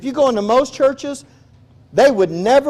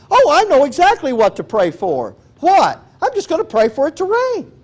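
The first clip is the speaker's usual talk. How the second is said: know-it-all tone, climbing higher and higher; mock smug certainty; 7 semitones higher than usual. Preacher mimics a self-assured believer to his class, smug. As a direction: play the believer who is sure he has it all figured out.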